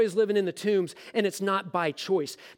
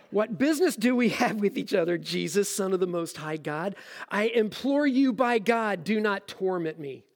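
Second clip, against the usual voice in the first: toned-down demon voice. Acted. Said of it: "that creepy voice".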